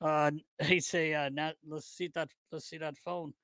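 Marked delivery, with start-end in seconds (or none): 1.3-3.3 hushed mock coach voice; coach impression. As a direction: quote the coach, voice dropped right down. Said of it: "I can tell you what he'd say".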